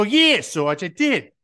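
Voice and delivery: loud, high mock answer to a sergeant; hammed-up yell back at the sergeant; shouted recruit's reply. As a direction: sound off like a recruit on parade. Acted reply to yelling sergeant.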